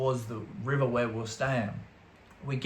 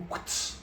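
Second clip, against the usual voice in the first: quick unvoiced blade sound; imitated blade noise; 10 dB quieter than usual. Storyteller mimics blades coming out under the table, soft swish. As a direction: make a soft little swish.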